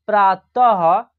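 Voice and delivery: प्रातः drawn out, ending in a breathy ह; slow clear reading. Shown as a demonstration. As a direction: slowly read प्रातः with the final breath. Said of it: "ये हो गया आपका सामान्यतः". (प्रातः को धीरे, अंत की ह ध्वनि के साथ)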